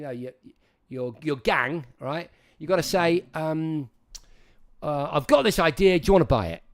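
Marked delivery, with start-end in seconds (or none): 5.1-6.6 bold, rising sales pitch; confident pitch. Shown as a demonstration. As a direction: pitch the idea like you're selling it. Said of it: "rather than".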